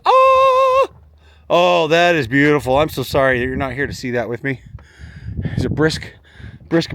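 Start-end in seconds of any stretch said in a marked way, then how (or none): 0.1-0.9 awed oh. Real, not acted. Sees the view from tower.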